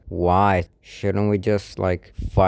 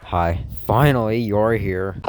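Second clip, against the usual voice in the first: affected, trying to sound cool; slower than usual. Acted. Host greeting arrivals at last, affected voice put on to seem cool. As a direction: make a show of the greeting. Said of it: "You don't have to talk like that".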